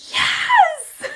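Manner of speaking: high, loud cry of delight; a mom's thrilled yes; excited yes. Retold or imitated. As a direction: shout it out with glee. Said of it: "I was like".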